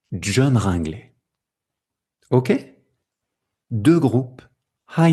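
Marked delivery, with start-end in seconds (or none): 0.1-1.1 "John Ringley" as one unbroken group; one rhythmic block. Shown as a demonstration. Teacher demonstrating group two, said as one block. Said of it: "Bloc deux".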